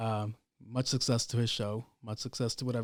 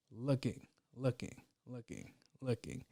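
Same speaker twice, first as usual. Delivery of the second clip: fading repeat; 11 dB quieter than usual. Real, not acted. Searching for the song.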